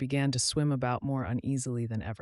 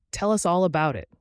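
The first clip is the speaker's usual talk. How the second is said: begging; 6 semitones higher, 9 dB louder than usual. A narrator's reading. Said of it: "begged Peter".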